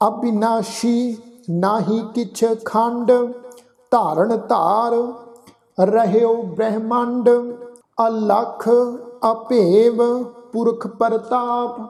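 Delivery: slow, drawn-out sacred recitation; scripture recitation. Acted. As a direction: recite the verse slowly, stretching the vowels.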